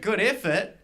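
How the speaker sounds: "good effort" slowed, leaning on "good" as if in quote marks; sarcastic air quotes. Shown as a demonstration. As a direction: put sneer quotes round "good effort". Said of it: "was in quotation marks".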